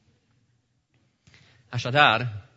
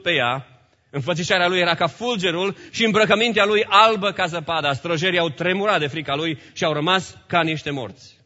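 loud, raised preaching voice; emphatic scripture reading; 4 semitones higher, 6 dB louder than usual. Acted. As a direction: proclaim the Bible verse to the congregation. Reads scripture aloud in preaching.

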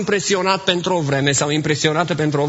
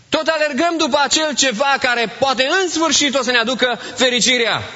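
raised, urgent sermon appeal; fervent preaching; 9 semitones higher than usual. Acted. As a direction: press the congregation with rising fervour. Preacher builds about chasing chimeras. (predică înflăcărată, cu glas ridicat)

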